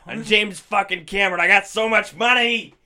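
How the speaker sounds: rambling hobo James Cameron. Pretend. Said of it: "Why do I sound like I'm a hobo".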